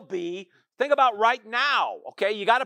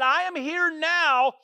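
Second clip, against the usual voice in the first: Jesus declaring with calm certainty, higher pitch; voicing Jesus; 4 semitones higher than usual. Jesus telling the mourners he will raise Lazarus, assured. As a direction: proclaim it like a promise already kept. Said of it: "He said".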